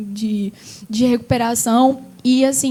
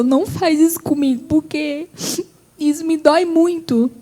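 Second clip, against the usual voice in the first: higher, choked-up father's plea; holding back tears; 4 semitones higher than usual. Retold or imitated. Father turning back to daughter, trying not to cry. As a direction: retell it on the verge of tears. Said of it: "tentando não chorar".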